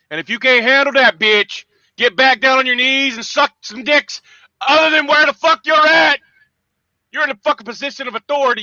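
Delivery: rising into a yelled insult; furious shout. Real, not acted. Ranting at the vice president, furious shout.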